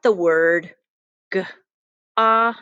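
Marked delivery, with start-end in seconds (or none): 1.3-1.4 "g", "ot", then blended "got"; sounding out got. Shown as a demonstration. Teacher sounding out "got" for the class. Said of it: "I'm gonna show you this word here". 2.2-2.6 whisper. Shown as a demonstration. Teacher segmenting sounds.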